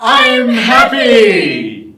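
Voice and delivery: happy, high and loud. Shown as a demonstration. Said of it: "high pitch and a loud voice".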